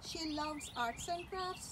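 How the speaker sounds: ordinary delivery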